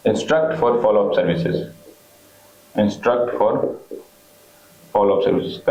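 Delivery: slow dictation, pausing between phrases; dictating. Real, not acted. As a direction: spell the point out slowly for note-takers. Teacher dictating a point for notes. (धीरे-धीरे बोलकर लिखवाते हुए)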